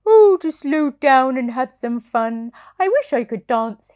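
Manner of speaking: breathy whisper of a tired horse; whispered wish. Acted. Reader voicing weary racehorse, whispered. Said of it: "he said".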